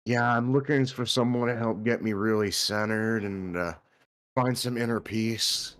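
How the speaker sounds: put-on relaxed Australian accent, drawn-out ending; lightly voiced Australian bloke. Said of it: "in an Australian voice".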